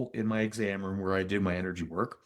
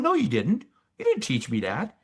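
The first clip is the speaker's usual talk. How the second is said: raised, insistent protest, higher on no; arguing back; 6 semitones higher than usual. Retold or imitated. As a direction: push back hard, mock-heated denial. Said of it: "We're having an argument".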